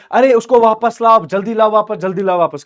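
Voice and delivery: high, loud, urgent plea; hammed-up frantic demand, pitch starting high; acted distraught wailing. Daughter begging to have suitor brought back, acted distress. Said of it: "पढ़ी और रोने लगी".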